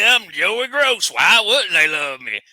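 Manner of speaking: high, loud, smug mimicry of Joey; mock arrogant Joey. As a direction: show off like a vain wrestler. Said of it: "He's arrogant".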